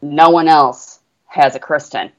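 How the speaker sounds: put-on a light Southern accent; lightly drawled Southern accent. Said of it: "in a Southern accent".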